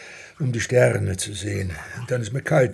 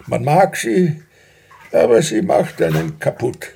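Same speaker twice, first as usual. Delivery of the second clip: louder, insistent protest; raised voice; 4 semitones higher, 6 dB louder than usual. Acted. Husband to wife about his job, loud and insistent. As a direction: push back hard on her worry.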